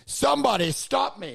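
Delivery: a hint of a goofy Ace Ventura voice; mild comic catchphrase voice; put-on voice. Joker showing off to friends, lightly put-on voice. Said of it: "you put on a voice".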